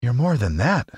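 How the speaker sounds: high, mildly hurt voice; a touch of grievance; grieved. Acted. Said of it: "in a grieved tone".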